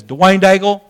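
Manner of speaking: imitating a gruff pastor on a call; brusque, firm name check; kinda gruff. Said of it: "Kinda gruff".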